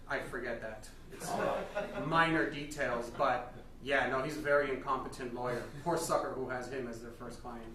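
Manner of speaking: stern Amish father. Acted.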